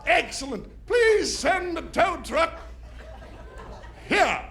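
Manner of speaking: put-on overly formal posh-sounding drunk; slow, careful fake grown-up voice; sober voice. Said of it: "I had the best sober voice".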